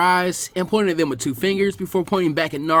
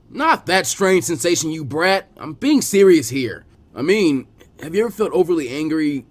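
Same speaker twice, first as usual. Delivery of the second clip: louder, slow, firm correction; exasperated scolding; 2 semitones higher, 6 dB louder than usual. Acted. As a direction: set the brat straight, fed up. Jiraiya exasperated, serious.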